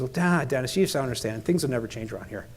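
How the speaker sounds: low, soft, defeated retelling; imitated resignation. DON explains to consultant nothing changes, resigned. Retold resigned worker in story.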